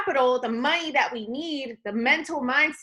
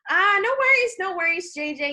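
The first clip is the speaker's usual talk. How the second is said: upbeat, high reassuring brush-off of the worry; 6 semitones higher, 4 dB louder than usual. Acted. Rep reassuring busy prospect J J, upbeat and reassuring. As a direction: put him at ease right away, bright and friendly. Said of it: "Always make sure you're relatable".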